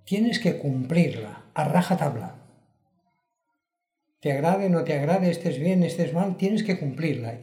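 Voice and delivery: forceful preacher's insistence; insistent. Real, not acted. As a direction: drive home that there is no choice. Insisting on strict discipline.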